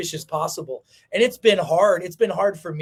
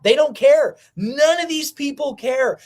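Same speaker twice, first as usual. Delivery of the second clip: higher and louder, voice close to breaking; cracking outburst; 8 semitones higher, 5 dB louder than usual. Real, not acted. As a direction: let it burst out, nearly crying. Ranting at viewers.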